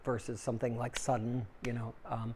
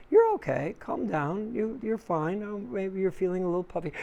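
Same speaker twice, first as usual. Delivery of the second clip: soothing inner voice; 6 semitones higher than usual. Pretend. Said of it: "your other part goes".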